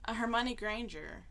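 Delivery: hushed unsure whisper. Real, not acted. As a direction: whisper the guess. Whispered guess.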